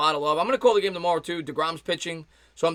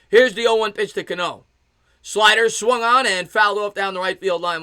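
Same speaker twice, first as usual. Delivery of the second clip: louder, higher sportscaster call; punchy baseball radio delivery; live play-by-play; 4 semitones higher, 6 dB louder than usual. Real, not acted. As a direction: call the swing as it happens. Calls the pitch live.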